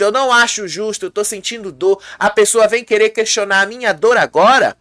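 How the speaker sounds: mildly acted indignation at being doubted; indignant complaint. The speaker complaining that his pain is questioned, mildly indignant.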